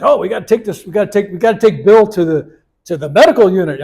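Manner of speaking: retold urgency. Helpers begging the guru to get Bill treated, mock urgent. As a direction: voice the worried helpers pleading.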